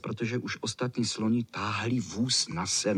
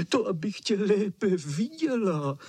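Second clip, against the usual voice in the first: much higher, delighted false grandma voice; wolf as grandma, rejoicing high; gleeful wolf; 10 semitones higher than usual. A narrator's reading. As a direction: crow it out with glee, the disguise slipping. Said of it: "radoval se vlk".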